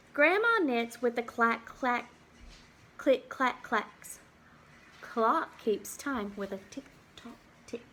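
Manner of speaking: put-on lively storybook read for little kids; reading to children. Teacher reads a farm book to the class, lively storybook voice. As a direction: read it out like a picture book at circle time.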